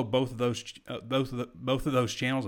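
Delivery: stumbling and restarting over the words; stuttering. Real, not acted. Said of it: "I'm stuttering today".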